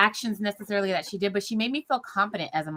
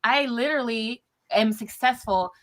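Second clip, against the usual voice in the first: heartfelt thanks. Retold or imitated. Thanking the nurse who helped.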